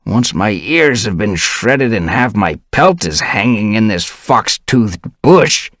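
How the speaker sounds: grumpy elder rasping at Dovepaw. Acted. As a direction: grumble it out slowly, rasping. Elder grumbling on.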